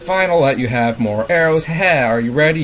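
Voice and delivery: lightly voiced grumpy game character, flat tune; a hint of a cranky monster woken from a nap; monotone bomb guy. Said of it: "That's how that guy talks".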